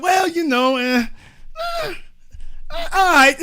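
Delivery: high, halting reluctant reply; mock hesitant concession. Threatened man wavers at the door, mock-reluctant and halting. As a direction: stall between noises as if half persuaded.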